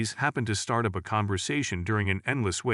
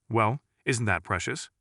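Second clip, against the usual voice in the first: sweet Southern lady. Acted. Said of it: "The lady from the South commented".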